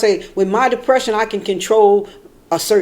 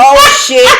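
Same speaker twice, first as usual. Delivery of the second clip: laughing oh-shit; 5 semitones higher, 10 dB louder than usual. Retold or imitated. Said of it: "I was like".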